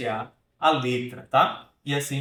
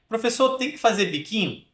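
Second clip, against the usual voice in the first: student's question; 6 semitones higher than usual. Acted.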